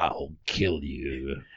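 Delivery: creepy ghost voice, very low and slow.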